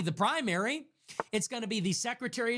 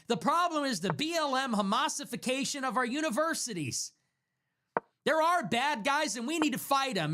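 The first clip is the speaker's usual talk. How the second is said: lightly voiced mock pundit, pitched higher; mocking Joe Lonsdale; 5 semitones higher than usual. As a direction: parody a smooth tech-right talking head, a touch higher. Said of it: "You know what Joe Lonsdale says?".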